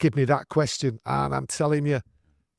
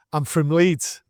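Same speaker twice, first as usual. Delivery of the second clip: lightly imitated Yorkshire accent; attempted Yorkshire accent; 2 semitones higher, 3 dB louder, slower than usual. Manchester lad passing himself off as from Leeds, attempted Yorkshire accent. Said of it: "in the best Yorkshire accent I can muster".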